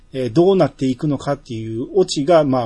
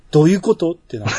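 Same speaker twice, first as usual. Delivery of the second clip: laughing through a baffled question; laughing puzzlement; 3 dB louder, faster than usual. Real, not acted. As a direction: chuckle while saying どういうこと, faster.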